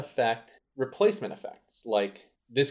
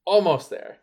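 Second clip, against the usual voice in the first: patient parent; 6 semitones higher, 8 dB louder than usual. Acted. Answering child like a parent.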